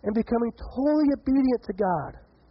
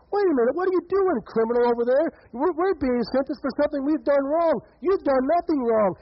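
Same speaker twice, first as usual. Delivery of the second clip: urgent rebuke; 5 semitones higher than usual. Acted. Criminal rebukes the other criminal.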